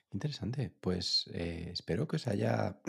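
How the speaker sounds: hoarse, failing voice; voice giving out. Real, not acted. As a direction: voice cracking and fading. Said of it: "perdón, que no tengo voz".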